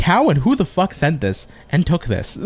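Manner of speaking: asked through real laughter; baffled, laughing at a photo a buddy sent; laughing disbelief. Real, not acted. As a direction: laugh while asking who took it.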